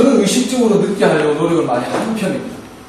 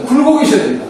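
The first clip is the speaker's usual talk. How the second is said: with modulation; 6 semitones higher, 4 dB louder, faster than usual. Shown as a demonstration. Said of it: "두 번째 마듈레이션".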